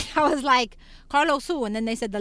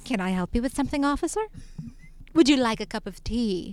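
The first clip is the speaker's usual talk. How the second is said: put-on very sweet young woman's voice, much quieter; 5 dB quieter than usual. Retelling what she said to a police officer, in her nicest white girl voice. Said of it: "I gave her my nicest white girl voice".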